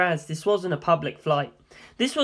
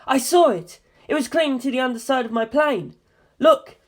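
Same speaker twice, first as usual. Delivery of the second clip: excited shout, high and loud; 8 semitones higher, 5 dB louder than usual. Acted. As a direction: yell it, pointing at the plane. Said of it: "came in shouting".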